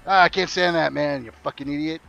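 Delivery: lightly voiced Canadian griping, insult tossed off; mock translated insult. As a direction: swap the Canadian "eh" for the muttered insult. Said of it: "it works just about every situation".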